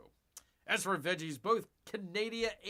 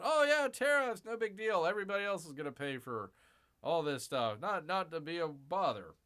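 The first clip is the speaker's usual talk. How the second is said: mocking dismissive voice. Mocking officials' reassurance.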